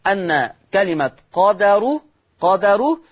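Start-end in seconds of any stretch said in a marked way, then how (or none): 1.3-3.0 قدر as qa-da-ru, open "a" after dal; fatha on dal. Shown as a demonstration. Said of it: "يقرأ بفتح الدال".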